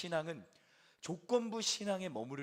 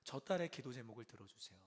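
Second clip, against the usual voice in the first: quiet intercession; 3 semitones lower, 3 dB quieter than usual. Retold or imitated. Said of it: "이렇게 기도하는 거죠".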